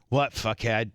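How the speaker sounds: blunt insults, spaced out with pauses; mock-rude reply. Host imitating how the sister talks to them, mock-abusive. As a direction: trade abuse in good fun. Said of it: "that's how she talks to me".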